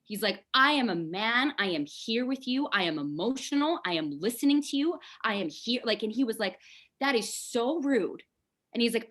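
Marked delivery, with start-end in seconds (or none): 0.5-5.8 insistent, higher-pitched imitation of a friend; indignant protest. Male best friend answering her rant, indignantly. 7.0-8.2 slow, higher-pitched reproach; mock indignation. Best friend reproaching her for the rant, indignantly.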